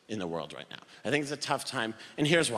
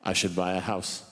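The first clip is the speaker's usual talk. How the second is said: earnest thought; 10 semitones lower than usual. Retold or imitated. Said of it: "I thought to myself, with no irony".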